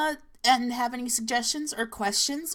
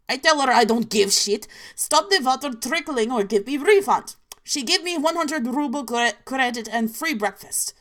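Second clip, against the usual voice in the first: mock angry rant; 2 semitones higher, 6 dB louder than usual. Angry complaint at hotel desk.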